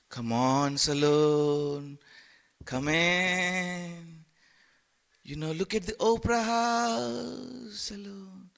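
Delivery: coaxing siren calling him by name; tempting Maya. Retold or imitated. Maya luring Salon toward worldly pleasures, coaxing call. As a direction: beckon him in, sweet and insistent. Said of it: "The Maya is".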